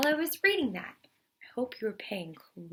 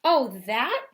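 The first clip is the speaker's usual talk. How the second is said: cried out; 3 semitones higher, 8 dB louder than usual. Acted. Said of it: "cried the bear".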